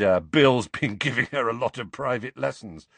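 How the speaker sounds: suggestive snigger through the words; lightly laughing, teasing delivery. Acted. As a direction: snigger as you gossip. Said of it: "sniggered Fred".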